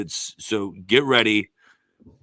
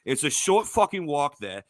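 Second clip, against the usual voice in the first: put-on British accent; 3 semitones higher than usual. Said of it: "Joseph and I can talk a British accents".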